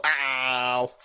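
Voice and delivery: long, drawn-out "ow"; hammed-up ow at being shot; mock pained ow. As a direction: stretch out a play-acted cry of pain. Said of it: "someone shoots you and you go".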